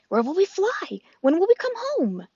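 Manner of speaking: gosling voice. Acted. The gosling asks.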